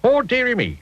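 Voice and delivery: high mock-gentle old tramp; a kindly tramp, lightly voiced; tramp's voice. A narrator's reading.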